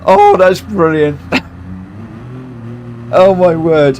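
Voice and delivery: ordinary talk, nothing marked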